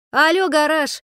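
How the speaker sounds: loud, high shout; yelled. Acted. Sashka yells to stop the man's nonsense, shouting. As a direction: yell to snap him out of it. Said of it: "проорала Сашка".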